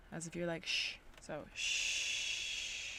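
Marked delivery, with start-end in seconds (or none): 0.7-1.0 soft drawn-out shush; shushing sound. Shown as a demonstration. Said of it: "the other sound is shh". 1.2-2.9 soft drawn-out shush; shushing sound. Shown as a demonstration. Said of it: "the other sound is shh".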